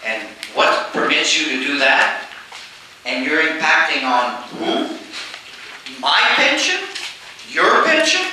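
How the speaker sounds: mock outraged pensioner, building to a squeak; indignant retirees. Speaker voices retirees confronting the premier, lightly indignant. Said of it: "retirees that are gonna say".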